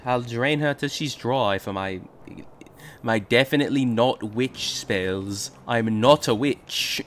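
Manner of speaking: slow, hammy witch voice. Acted. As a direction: lean into the witch, slow and menacing. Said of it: "That is just such a witch voice".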